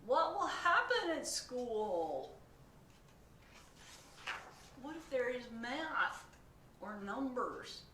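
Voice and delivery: high, loud anxious questions; fretting pigeon. Acted. Pigeon worries about school, high anxious. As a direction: fret through every worry.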